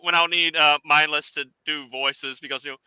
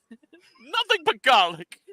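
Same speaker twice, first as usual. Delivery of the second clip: high silly voice; 10 semitones higher, slower than usual. Pretend.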